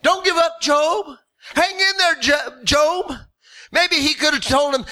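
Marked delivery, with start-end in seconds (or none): 0.0-3.1 pep talk. Pretend. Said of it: "kind of pepped him up".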